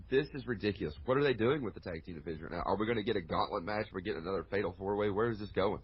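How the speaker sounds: ordinary talk, nothing marked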